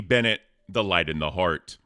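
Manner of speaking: ordinary delivery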